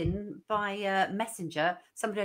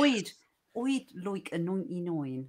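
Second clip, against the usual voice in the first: put-on slow North Essex accent, I'd as oid; slower than usual. Repeats the ninety-nine order in Essex accent. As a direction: rural Essex vowels throughout.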